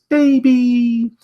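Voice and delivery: high held tender call; mama hippo. Acted. Mama hippo answering her baby, high held voice. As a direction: answer the little one gently. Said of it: "mama hippo ... says".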